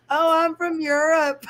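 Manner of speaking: high, loud put-on European accent; fake European accent. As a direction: imitate a bogus European accent. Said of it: "used to pretend I had accents".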